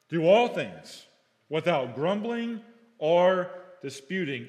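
"all" loud, "without grumbling or disputing" drawn out slowly; slow emphatic refrain. Shown as a demonstration. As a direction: drive the verse home slowly. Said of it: "verse repeated as refrain".

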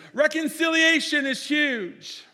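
high, loud, slow proclamation; booming pulpit emphasis; proclaimed. Acted. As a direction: ring out the big word. Pastor proclaims key point.

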